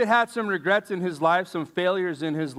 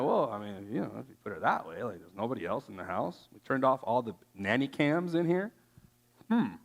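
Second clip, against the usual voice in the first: sly excuses; 6 semitones lower, 6 dB quieter, faster than usual. Retold or imitated. Mocking tempted person's excuses.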